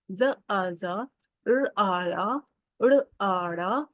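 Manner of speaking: slow, clear syllable-by-syllable reading; phonics drill. Shown as a demonstration. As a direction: sound out each letter for children. Teacher drills letter sounds. (धीमी, साफ़ अक्षर-ध्वनि पढ़ाई)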